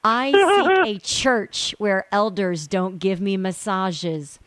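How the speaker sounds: can barely get through the letter for laughing; laughing while reading. Real, not acted. Guest reading an absurd letter to the host, laughing through it.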